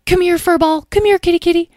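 high-pitched pet-calling voice; high, eager coaxing; coaxing a kitten. A narrator's reading. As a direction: call a kitten over in a high coo.

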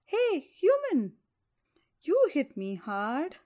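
big loud bear voice. Acted. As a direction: growl it out as a bear. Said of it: "the bear speaks".

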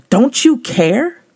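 slow, high, whiny complaint to Jesus; annoyed Martha. Retold or imitated. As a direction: drag out the complaint, hurt and annoyed. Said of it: "she looked at Jesus in her annoyance".

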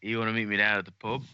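hammed-up Australian accent, a bit fast; a playful mock Australian pub invite; bad Australian accent. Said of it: "terrible Australian".

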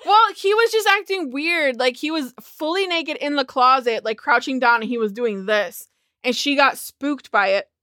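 hiccupping between words; talking through hiccups. Real, not acted. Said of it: "Excuse me, I have hiccups".

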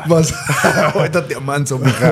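laughing quote. Retold or imitated. Friend quotes Negan, laughing.

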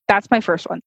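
muffled through a mask; talking with a mask on; through a face mask. Real, not acted. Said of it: "I might sound a little muffled".

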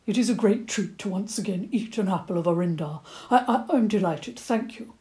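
a fussy old badger asking politely. Old badger asking the children for an apple, stammering.

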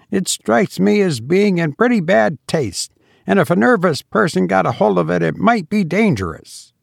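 lightly voiced young gentleman, faintly offended; lightly voiced Eustace. A narrator's reading. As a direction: lift the voice for Eustace, mildly put out. Eustace's indignant character voice.

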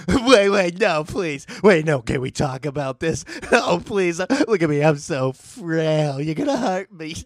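high, loud hammed-up begging; mock pleading. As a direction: beg for mercy in a squeaky panic. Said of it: "something more along the lines of".

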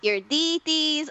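high, fast, gushing mom voice; excited mom. Retold or imitated. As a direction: rattle it off like an overjoyed mother. Mom bragging plans.

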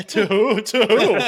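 high, loud disbelieving "to who"; loud incredulous retort. Retold or imitated. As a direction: fire back in loud mock disbelief. Mock indignant reply to commenter.

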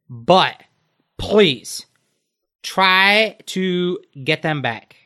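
high, loud and pleading, slow at the end; a royal mermaid begging for help; mermaid princess voice. Acted. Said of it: "so Pearl, she says".

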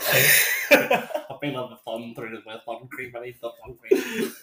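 laughing through a retold whinge; amused, hammed-up fretting; laughing mock complaint. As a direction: imitate a fussy friend while laughing. Mocking friend panicking over sunburn.

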